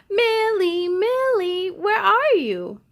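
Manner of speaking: high, loud call across the yard. Acted. Siblings searching for Millie in hide and seek, calling out. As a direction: call for her while searching.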